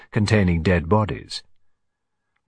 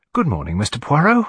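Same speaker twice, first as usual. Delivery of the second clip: higher, rising polite reply; Miss Lemon; 4 semitones higher than usual. Acted. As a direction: efficient secretary greeting her employer. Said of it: "But Miss Lemon he had never considered".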